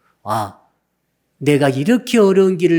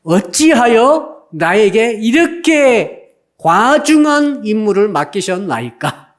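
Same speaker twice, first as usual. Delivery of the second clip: despairing prayer; 4 semitones higher than usual. Retold or imitated. Preacher voices Moses begging God, a hammed-up despairing plea. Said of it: "뭐라고 기도하는가 하면".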